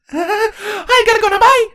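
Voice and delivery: high, hurried nervous escape line with a laugh; blurted out. Acted. Fleeing changeling blurts goodbye to the ponies, high and hurried. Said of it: "the changeling blurted out".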